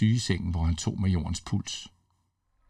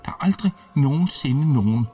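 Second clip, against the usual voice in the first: feverish sick man pleading, higher and agitated; a fevered major begging a ghost to leave, voice raised and urgent; delirious major; 5 semitones higher than usual. A narrator's reading. Major raves about secret door.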